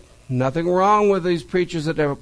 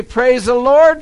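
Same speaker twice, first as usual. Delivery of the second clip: retold praise; 6 semitones higher, 6 dB louder than usual. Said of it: "When she would say".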